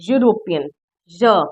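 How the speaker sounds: यूरोपियन, then its opening "ya" glide alone as य; isolating Y sound. Shown as a demonstration. Teacher picks out the first sound for students, यूरोपियन then a separate "ya". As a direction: sound out यूरोपियन and split off a lone य. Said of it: "यूरोपियन बोलते हैं तो या की sound".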